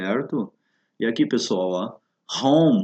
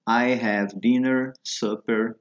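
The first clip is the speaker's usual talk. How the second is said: slow model phrase; much slower than usual. Shown as a demonstration. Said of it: "para as demais refeições também".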